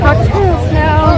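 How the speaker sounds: high, slow whining plea; drawn-out plea. Real, not acted. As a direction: stretch it out like a needy whine. Begging for cocktails.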